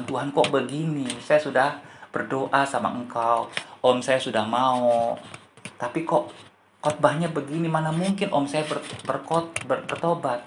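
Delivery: hurt, questioning, understated; disappointed complaint. Retold or imitated. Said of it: "Dia kecewa, saudara. Dia sedih sama Tuhan".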